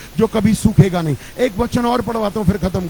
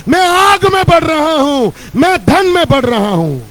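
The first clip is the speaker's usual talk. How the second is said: rising fervent proclamation; preaching declaration; 3 semitones higher than usual. Real, not acted. Leads confession declarations. (जोशीली घोषणा)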